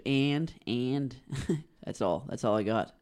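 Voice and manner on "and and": "and" with a strong, stretched A; Canadian A. Shown as a demonstration. Guest shows Eastern Canadian A's, stretched vowel in "and". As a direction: lean on the A vowel in "and". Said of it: "and, and A's".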